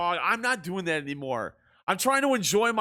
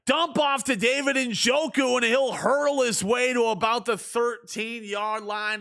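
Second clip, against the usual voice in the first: higher-pitched stab at a London broadcaster; attempted London broadcaster; 4 semitones higher than usual. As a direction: try a London sportscaster accent, half-committed. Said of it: "I literally tried to do it right there".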